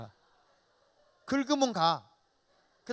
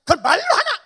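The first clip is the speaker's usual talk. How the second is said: high, loud, blunt retort; gruff Gyeongsang husband; 14 semitones higher, 20 dB louder than usual. Retold or imitated. Gyeongsang husband brushing off his wife, loud gruff scoff. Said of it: "막 이러는데".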